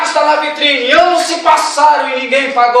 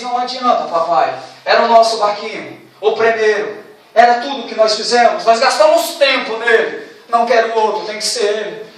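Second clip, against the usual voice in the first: put-on inconsolable child; 3 semitones lower than usual. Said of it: "a criança chorava inconsolavelmente".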